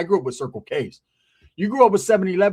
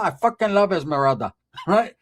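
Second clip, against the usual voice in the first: gangster grandma. Retold or imitated. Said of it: "My grandma was like ... but gangster".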